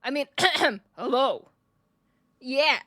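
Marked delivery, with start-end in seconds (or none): 1.0-1.5 put-on shonen boy hello, held level; lightly voiced boy hero. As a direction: greet like an anime boy, keeping it down. Clears throat, corrects greeting to boy voice.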